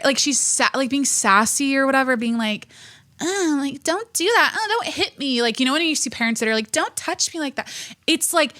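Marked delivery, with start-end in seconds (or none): 3.2-5.4 high, helpless pleading; mock whiny mom. Mocking a mom begging her son not to hit her, high and whiny. 6.7-7.7 mock whiny parent. Mocking parents who negotiate.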